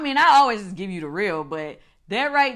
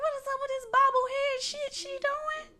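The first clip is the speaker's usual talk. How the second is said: mocking disbelief; 5 dB quieter than usual. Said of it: "I was like".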